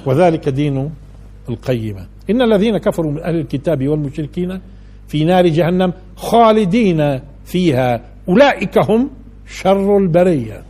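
slow, weighty verse recitation; solemn, drawn-out scripture reading; slow Quran recitation. Acted. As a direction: lay out the verse slowly and gravely.

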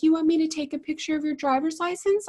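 high, snotty mock voice; hammed-up snooty neighbor; snotty lady. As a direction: imitate her smug offer. Mimicking neighbor's snotty offer.

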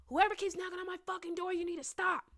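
high-pitched yell, held back from full volume; retold hallway scream. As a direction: re-enact yelling down a hallway at whoever's knocking. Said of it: "So I scream in the hallway".

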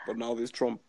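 a hint of Obama, mostly his own voice; lightly voiced Obama speech; understated Obama impersonation; Barack Obama impression. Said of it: "I can even try to do Barack".

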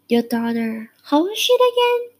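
lightly voiced elderly waitress; old waitress voice. Dad's old waitress friend voiced.

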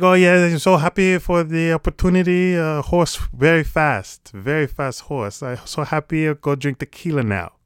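high, loud mock Mexican jockey accent; hammed-up broken English in a bad Mexican accent, overjoyed interviewee. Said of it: "Horrible accent".

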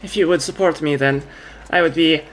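put-on halting, lightly French-accented speech. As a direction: play her with a slight French accent, pausing often. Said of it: "she's like a French accent".

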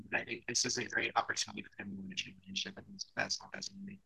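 robotic crackly mic audio; broken up like a glitchy robot; crackling mic. Real, not acted. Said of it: "it's like crackling or something".

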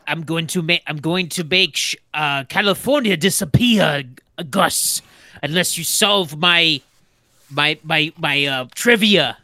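villain threat in a shaky attempt at Russian; halting, hammed-up Russian accent; bad Russian accent. Playing villain Gustavo against Gus, bad Russian accent. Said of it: "I like this accent".

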